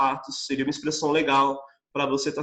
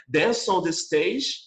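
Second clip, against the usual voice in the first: slow clear model; much slower than usual. Shown as a demonstration. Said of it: "posso falar pra você dançar".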